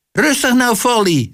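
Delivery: high-pitched urging call; high cry from the audience. A narrator's reading. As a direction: call out high to steady a performer. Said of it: "riep ze".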